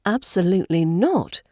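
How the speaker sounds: sharp, classy refusal; crisp British put-down; firm yet classy. Shown as a demonstration. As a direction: refuse firmly in posh British style. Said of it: "if you're feeling firm yet classy, a sharp".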